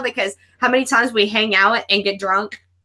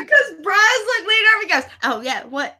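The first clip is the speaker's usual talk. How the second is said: laughing hard; 4 semitones higher than usual. Real, not acted. Guest laughing hard while retelling the host's reaction. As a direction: crack up while telling it. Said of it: "That's why I'm laughing so hard".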